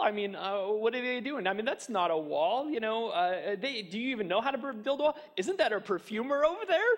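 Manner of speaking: mock the builders as if they're clueless. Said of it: "they're mocking them".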